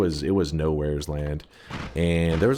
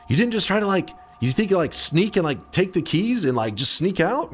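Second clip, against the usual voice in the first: pitched-up mock father; incredulous dad; 12 semitones higher than usual. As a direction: play the dad who expected mischief. Dad voiced in retold story.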